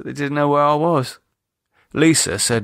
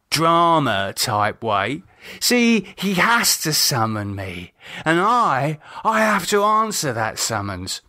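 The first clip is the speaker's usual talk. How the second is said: contemptuous; 5 semitones higher, slower than usual. Acted. David turns contemptuous.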